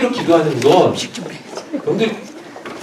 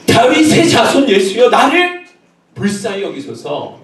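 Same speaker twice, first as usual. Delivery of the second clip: raised, high plea that drops at the end; crying out; 5 semitones higher than usual. Acted. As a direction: call out for mercy, not yet at full strength. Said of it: "소리 질렀다니까요".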